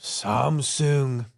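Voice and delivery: Samsung with sung rhyming with song; Japanese accent. Shown as a demonstration. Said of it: "It sounded like you did".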